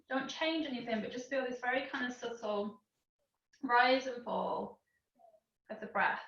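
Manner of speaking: calm breathing-class guidance with long pauses; guided relaxation. Real, not acted. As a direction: gently lead them through each breath, leaving space.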